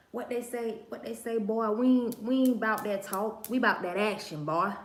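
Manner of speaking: imitated Louisiana accent. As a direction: put on a playful Louisiana accent. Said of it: "them people with them Louisiana accents".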